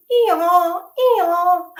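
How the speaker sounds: high, loud hee-haw bray; donkey bray. Acted. Burros arriving at Anna's hill, loud braying.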